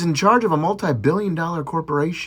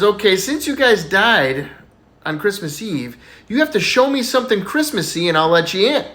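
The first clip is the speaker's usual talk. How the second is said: Saint Peter; 5 semitones higher than usual. Acted. Saint Peter voiced in joke.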